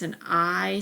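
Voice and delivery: I drawn out as its letter name; stretched long I; long I sound. Shown as a demonstration. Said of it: "Those are the long vowel sounds".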